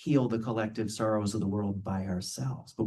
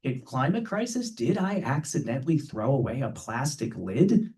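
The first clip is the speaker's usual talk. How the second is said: mock panic; 4 semitones higher, 4 dB louder than usual. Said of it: "They're like".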